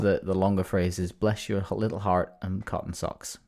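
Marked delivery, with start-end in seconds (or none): 1.1-3.4 lightly attempted American accent; half-hearted, badly faked American twang. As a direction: slip into a bad American accent. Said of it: "did that in a bad American accent".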